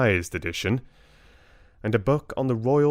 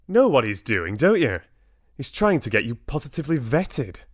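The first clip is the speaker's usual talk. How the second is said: angry; 4 semitones higher than usual. Acted. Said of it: "He exploded".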